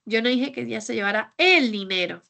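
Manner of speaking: "el dinero" marked as the point; stress on DINERO. Shown as a demonstration. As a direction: bring out "el dinero" at the end. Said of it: "es que tal vez se llevó otra cosa". (énfasis en "el dinero")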